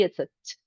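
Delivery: short crisp t sound; a single crisp t, no uh; quick stop sound. Shown as a demonstration. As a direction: clip the t short with no vowel after. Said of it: "a stop sound is a quick".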